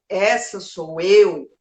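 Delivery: slow, deliberate statement to oneself; measured, weighty self-affirmation; self-acceptance. Acted. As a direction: own it word by word, unhurried. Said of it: "você olha e você fala".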